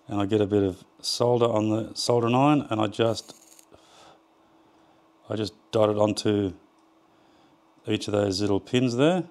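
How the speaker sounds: talking while holding breath. Real, not acted. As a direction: hold your breath and speak. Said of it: "If it sounds like I'm talking funny, it's because I'm holding my breath".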